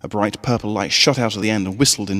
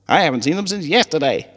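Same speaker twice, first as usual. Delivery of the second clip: put-on young colt voice; 8 semitones higher than usual. A narrator's reading. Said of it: "Snips replied".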